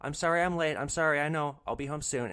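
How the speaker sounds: a hint of a sheepish child; child answering a parent. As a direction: sound like a kid apologizing to mom. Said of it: "like a child answering for the parent".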